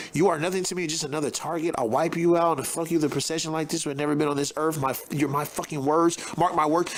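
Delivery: lightly hammed-up tough-guy threat; mock tough guy threat. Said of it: "He doesn't even talk like this".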